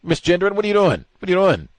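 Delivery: high, loud mock accusation of misgendering; mock accusing outburst. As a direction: fire it off as a shrill-sounding charge, hammed up. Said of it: "about to make that charge".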